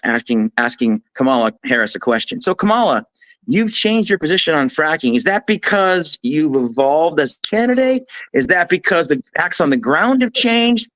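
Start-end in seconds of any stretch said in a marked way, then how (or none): 2.4-10.9 lightly imitated TV interviewer, pitched slightly up; Dana Bash. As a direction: lightly mimic an interviewer reading out multiple-choice options. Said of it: "my impression of Dana Bash".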